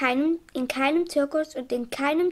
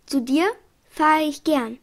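warm reply; 5 dB louder than usual. Acted. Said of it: "sagte das Stoßmalziehmal ganz unerwartet".

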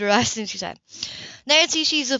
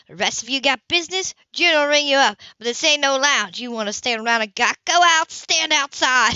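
mock scolding; 3 semitones higher than usual. Mother runs the gawkers out of her store, gruff.

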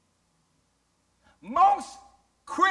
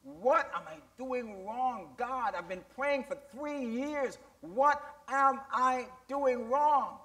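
retold pleading prayer; 3 dB quieter than usual. Preacher retelling a father's prayer to the Lord, mildly pleading. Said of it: "And so he went to the Lord".

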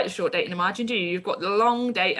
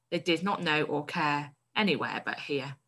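expressive read-aloud of a story; teacher reading a story to the class. A narrator's reading. Teacher reads story passage aloud.

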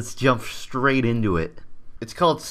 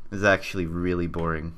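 low, quiet deadpan; flat deadpan; 7 semitones lower, 4 dB quieter than usual. Real, not acted. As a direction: drop it flat and bored. After fake enthusiasm.

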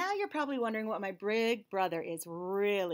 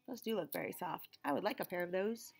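soft unvoiced aside; whispered aside; 3 semitones lower, 7 dB quieter than usual. Real, not acted. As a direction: whisper it to yourself.

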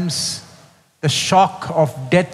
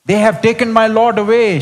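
lightly raised, pleading lament; a touch of grieving Mary; 7 semitones higher, 3 dB louder, faster than usual. Acted. Preacher voicing weeping Mary at the tomb, mild plea. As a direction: give Mary's plea a slight lift.

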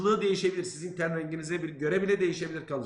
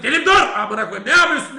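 much higher, much louder frantic yell, laughing; panicked scream; 7 semitones higher, 12 dB louder than usual. Retold or imitated. Son screaming at his father to stop spraying, panicked yell.

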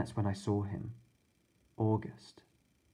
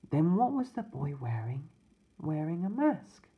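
put-on high little-boy voice fading to a whisper; little brother whispering about the boy's mask; small child voice, hushed; 6 semitones higher than usual. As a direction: ask in wonder, then whisper the last words.

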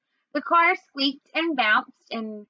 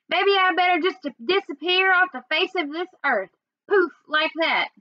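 bitter; 6 semitones higher than usual. A narrator's reading. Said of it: "sounded so mean".

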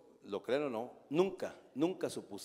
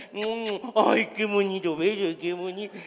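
louder delighted coo; 4 semitones higher, 7 dB louder, slower than usual. Retold or imitated. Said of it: "yo en Soriana".

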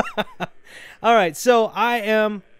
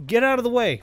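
actually annoyed; 4 semitones higher than usual. Real, not acted. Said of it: "but now I'm actually angry".

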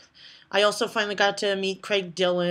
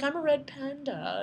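puppet voice; 6 semitones higher, 8 dB quieter than usual. Acted. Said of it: "she was like".

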